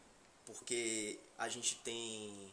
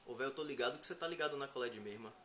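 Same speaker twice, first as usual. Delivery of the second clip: Bahian accent; 4 dB quieter, faster than usual. Shown as a demonstration. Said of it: "você fala assim".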